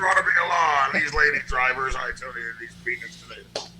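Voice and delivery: put-on loud, punchy old-time comic patter; brash vaudeville comic. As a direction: hammer out the jokes like a borscht-belt comic.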